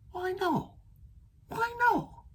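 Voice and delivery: put-on high, pleading child voice; a small monster asking why; little Gruffalo child. Little child asking her dad, high and pleading.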